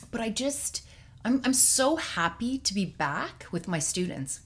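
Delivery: on the verge of happy tears; tearing up. Real, not acted. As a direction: voice welling with emotion. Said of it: "I'm gonna tear up right now".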